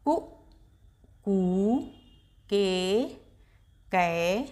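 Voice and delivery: रटते हुए का से कहा तक एक के बाद एक; quick run-through. Shown as a demonstration. Teacher recites the whole series for pupils, as a quick run-through. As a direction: rattle off the syllables in a row. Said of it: "जल्दी से बोलकर दिखाते हैं".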